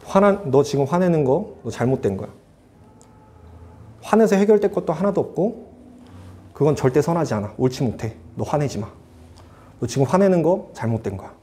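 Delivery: retold motherly reproof, kept controlled; firm, cut-and-dried. Mother corrects her angry son, firmly. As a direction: lay down the rule without raising the voice. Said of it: "딱 잘라 말씀하시는 거야".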